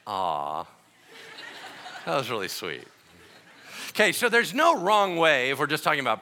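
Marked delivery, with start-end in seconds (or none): 0.1-2.9 a fond dad charmed by a clumsy try; touched and tender. Acted. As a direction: melt at something cute. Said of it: "God's like".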